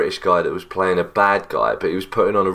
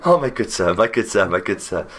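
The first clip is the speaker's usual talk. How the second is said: mock posh. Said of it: "very posh accent".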